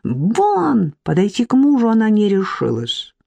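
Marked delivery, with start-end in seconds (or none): 0.0-0.9 much higher, slow furious shrieking. Acted. Irka thrown into the chair, furious high shriek. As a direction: shriek in fury. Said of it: "завизжала разъярённо".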